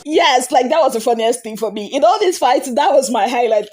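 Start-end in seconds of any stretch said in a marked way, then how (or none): none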